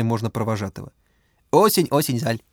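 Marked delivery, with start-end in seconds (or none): 1.5-2.4 put-on Russian with lisping Chinese accent. A narrator's reading. Bao's accented speech.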